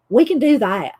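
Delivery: put-on Southern accent. Shown as a demonstration. Host proving she can do accents on demand, Southern accent. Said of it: "I can do a Southern acc".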